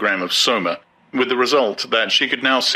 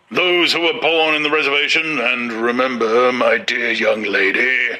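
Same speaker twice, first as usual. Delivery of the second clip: leering warden; 3 semitones higher than usual. A narrator's reading. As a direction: lean in and leer. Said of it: "leering obscenely at Lenina".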